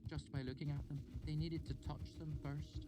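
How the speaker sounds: high, deliberate student voice; student storyteller. A narrator's reading. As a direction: build the anecdote with pauses. Student Fela tells story.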